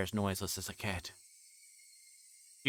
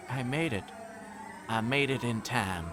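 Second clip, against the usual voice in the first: manic triumph; 3 semitones higher than usual. Acted. Triumphant after stabbing.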